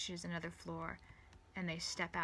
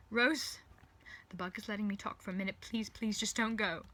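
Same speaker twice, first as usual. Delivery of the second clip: mildly desperate, raised-pitch begging; a touch of panic, higher and louder; urgent pleading; 3 semitones higher, 7 dB louder than usual. Acted. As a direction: plead urgently before time runs out. Urgent plea to departing Rose.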